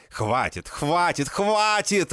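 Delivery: escalating furious yell; furious shout. A narrator's reading. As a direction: scream it out in rage, growing. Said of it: "Ору я в бешенстве".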